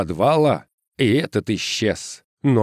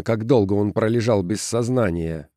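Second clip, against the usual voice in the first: ordinary delivery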